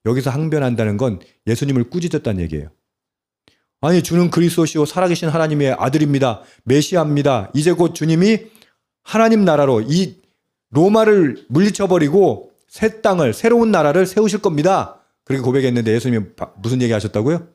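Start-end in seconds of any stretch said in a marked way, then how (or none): 3.8-15.0 Peter's eager protest. Retold or imitated. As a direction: play Peter pleading, swelling with zeal. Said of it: "베드로가 예수를 붙들고 항변하매".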